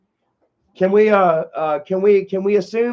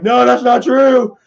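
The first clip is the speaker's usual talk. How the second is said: higher, louder insistent denial; mock raging denial; 4 semitones higher, 4 dB louder than usual. Streamer mocking an angry rival's denials, raised pitch. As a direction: protest like a sore loser. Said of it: "He's like".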